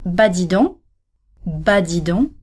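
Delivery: "bas dis donc" with nasal donc, clear for learners; model pronunciation. Shown as a demonstration. Teacher models the first form for learners. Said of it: "There are two ways of saying this expression".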